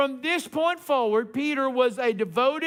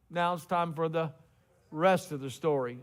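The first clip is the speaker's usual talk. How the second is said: low, soft radio-host voice with dramatic pauses; Paul Harvey; 6 semitones lower, 5 dB quieter than usual. Retold or imitated. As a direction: drop into a hushed old radio announcer. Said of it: "As Paul Harvey used to say".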